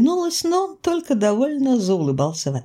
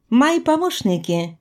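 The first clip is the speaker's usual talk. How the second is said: помощники set apart, pitched higher; emphasis on помощники; 6 semitones higher than usual. A narrator's reading. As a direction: pointedly underline the word помощники. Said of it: "это слово я особо подчеркнула". (особо выделить слово «помощники»)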